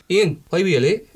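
attempted Edinburgh Scottish; mock Edinburgh accent. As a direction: put on a shaky Edinburgh accent. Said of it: "I'll have people from Edinburgh going".

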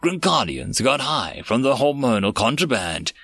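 measured rhyming storyteller delivery; verse story narration. Acted. Narrator telling listeners of aliens and a stolen child, storytelling. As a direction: narrate it as a rhyming tale, lingering on each refrain.

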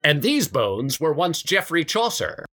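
lightly voiced, slow tour guide; a hint of a museum guide lecturing. Tour guide to schoolchildren in the crypt, lightly voiced. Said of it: "Tour guide".

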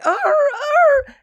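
very high yelping dog whine; whimpering corgi. Pretend. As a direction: yelp like a hurt little corgi. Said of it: "she'd be like".

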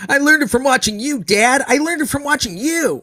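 put-on high, loud tearful kid cry; the kid in the drug ad answering Dad. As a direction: wail it like the kid caught with pot. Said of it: "And the kid goes".

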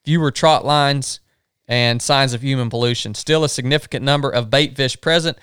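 even, measured reading of a trip log; journal read-aloud. Real, not acted. Camper reading the day's river journal aloud, measured. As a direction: read the day's notes out steadily.

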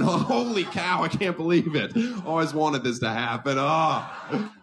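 laughing, delighted mock host; gleeful Bob. Bob cackling at the wheel accident, delighted. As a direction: howl with glee at the disaster.

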